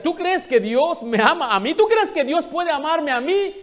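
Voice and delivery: high, loud crying plea; sobbing mother asks if God could love her; tearful pleading. Retold or imitated. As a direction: wail it out like a woman in tears. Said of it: "Ella ya llorando y con llanto decía".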